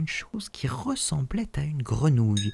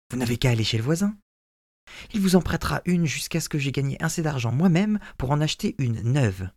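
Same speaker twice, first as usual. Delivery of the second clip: eager son; 3 semitones higher, faster than usual. Acted. Son suggesting the neighbour's axe, quick and eager. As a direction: rush the suggestion brightly.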